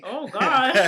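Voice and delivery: usual speaking voice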